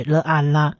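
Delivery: 了 and 啊 sounded apart, then blended into 啦; sounding out syllables. Shown as a demonstration. Teacher blends consonant and vowel, sounding out 了啊啦. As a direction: join 了 plus long 啊 into 啦. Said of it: "了的音加上下面的小t是长母音啊".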